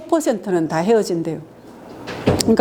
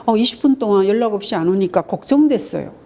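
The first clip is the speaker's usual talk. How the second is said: calm I-message. Shown as a demonstration. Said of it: "나 전달법".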